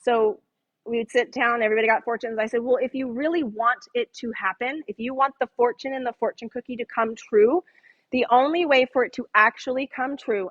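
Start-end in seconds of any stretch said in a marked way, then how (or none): 2.6-10.5 mock-earnest, matter-of-fact explaining; straight-faced authority. College prankster at the table explaining with straight-faced authority. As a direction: keep a straight face while selling nonsense. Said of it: "I said this straight-faced".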